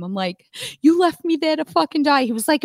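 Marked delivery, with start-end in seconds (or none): 0.8-2.2 raised, indignant movie-style rant; lightly hammed-up outrage; Vince Vaughn. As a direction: accuse with mock betrayal. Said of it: "I'm, like, Vince Vaughning him".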